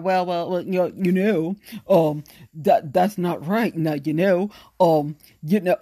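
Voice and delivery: mocking put-on white American voice. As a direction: imitate a halting, put-on white voice. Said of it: "Stop putting on your white voice".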